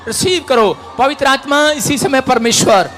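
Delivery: loud, high preaching commands; full-force preaching. Real, not acted. Preacher urging the woman to scream, loud preaching. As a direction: drive the spirit out with shouting.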